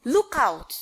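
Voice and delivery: a sudden high, loud warning shout; urgent shout. Shown as a demonstration. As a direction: yell it like a warning of danger. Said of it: "You say".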